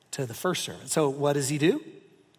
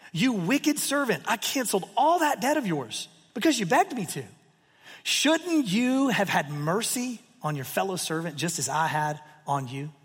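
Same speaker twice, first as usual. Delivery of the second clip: stern master; 2 semitones higher than usual. Acted. Master rebukes servant in parable.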